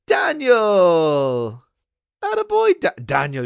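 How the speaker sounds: loud, high greeting shout; calling out. Real, not acted. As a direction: hail your friend across the pub. Greeting a friend loudly.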